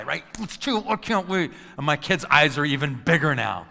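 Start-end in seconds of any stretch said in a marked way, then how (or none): 0.4-1.5 fired up to fight. Retold or imitated. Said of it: "I'm thirteen again".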